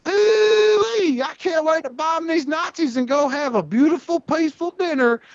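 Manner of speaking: high, folksy hammed-up pilot voice; old-timey bomber pilot. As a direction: chipper high-pitched 1940s flyboy. World War Two bomber guy.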